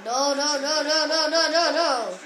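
real game-time dismay; alarmed protest. Real, not acted. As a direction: protest in a rush as the play goes wrong.

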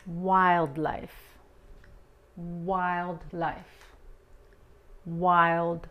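"Wildlife" with a light L and a firm D; subtle L demo. Shown as a demonstration. Teacher drilling "Wildlife" for Spanish speakers. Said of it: "Aquí la L muy sutil".

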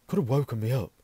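loud, cross complaint. A narrator's reading. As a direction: grumble it crossly, raising your volume. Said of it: "said Ron crossly".

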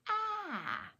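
"ah" with the mouth open, like apple; short a sound. Shown as a demonstration. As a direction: sound out "ah" clearly. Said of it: "You just take your mouth and say".

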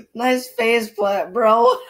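laughing tease. Acted. Teasing brother after his fall.

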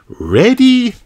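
high, loud starting call; shout. Acted. Kylie starts the race, high loud shout. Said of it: "shouted Kylie".

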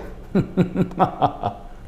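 a sly, breathy villain's laugh; an old woman's gloating, breathy chuckle; sinister laugh. Retold or imitated. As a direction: laugh under your breath like a schemer. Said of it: "음흉하게".

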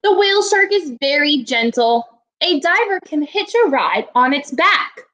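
steady read-aloud voice for a class. Acted. Teacher reading a shark book to her class, read-aloud voice. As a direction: read the book page clearly to the kids.

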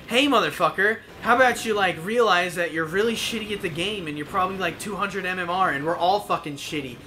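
fed-up telling-off. Retold or imitated. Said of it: "I can't take it anymore".

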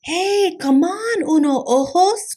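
high, eager cartoon kitty call. A narrator's reading. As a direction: call your pal over, high and lively. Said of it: "called the kitty boy".

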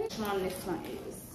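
talking around retainers; slight lisp from retainers; wearing a retainer. Real, not acted. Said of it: "I'm talking a little funny, it's because I got my retainers in".

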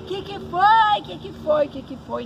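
high, loud call, fading on each repeat. Retold or imitated. Uncle calling from the window to the boys, high loud call fading. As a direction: shout it out the window, then let it die down.

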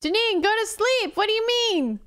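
high-pitched, incredulous outburst; exclaimed scolding. Real, not acted. Streamer telling Janine to sleep, high exclaimed scolding. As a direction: cry out at a friend in disbelief.

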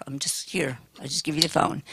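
whispered aside. Real, not acted. Aside about her role.

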